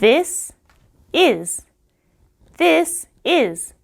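"This is" with clean final consonants; correct pronunciation. Shown as a demonstration. Teacher corrects Jay, clean English "This is". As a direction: model "This is" slowly, no vowel added. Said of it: "이렇게 말해야 돼요".

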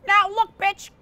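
monkey tells the woman to get lost; angry monkey. Acted. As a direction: snap at her like a cranky chimp. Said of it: "Mister Monkey goes".

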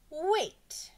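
high, loud interruption; calling out. A narrator's reading. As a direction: stop everyone with a shout. Pupil calls out to halt others.

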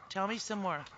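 soft coaxing. Real, not acted. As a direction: coax the pet gently up close. Coaxing the pet.

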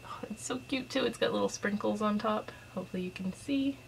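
soft unvoiced whisper. Real, not acted. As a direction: whisper it close to the mic. Showing a small cute candle.

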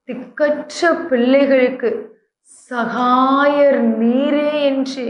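slow, drawn-out திக்கற்ற பிள்ளைகளுக்கு; slow prayerful. Shown as a demonstration. Pastor praying the verse back to God, slow and drawn out. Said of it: "இந்த நாளிலும்".

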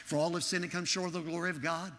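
hurried run through memorized verses; reciting really fast. Retold or imitated. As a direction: rattle the verses off without a break. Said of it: "I was really going fast".

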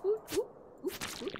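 short high-pitched "oop" noises; high little oops. Real, not acted. Player making idle noises over gameplay, high little oops. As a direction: pop out tiny high oops.

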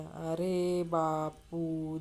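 very slow, drawn-out address; Tatya. Acted. Drinker answers his friend Bapu, very slow and drawn out. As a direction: stretch each word, lightly acted old pal. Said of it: "तात्या".

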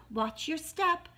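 high, slow warning call. A narrator's reading. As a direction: call a careful warning, drawn out. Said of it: "called Mother Duck".

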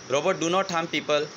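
slow, evenly spaced robot words; lightly voiced robot, word by word; mechanical voice. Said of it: "mechanical વોઇસમાં કીધું". (ધીમો યાંત્રિક robot અવાજ)

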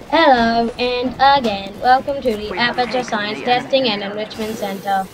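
lightly done robotic AI announcer voice; a hint of the calm test-chamber AI; main GLaDOS voice. Shown as a demonstration. Friend imitates the game's AI for a teammate, lightly robotic. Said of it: "That's the main GLaDOS, like, normal voice".

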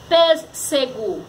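"Pêssego" slowly split, pês, se, go; sílabas separadas. Shown as a demonstration. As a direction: spell out the syllables of "Pêssego". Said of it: "Olha como foi separada". ("Pêssego" devagar, sílaba por sílaba)

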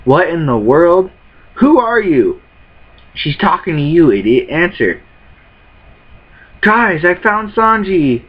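a touch of acted cartoon voices; voicing anime characters. Reading anime subtitles to viewers, lightly voiced characters.

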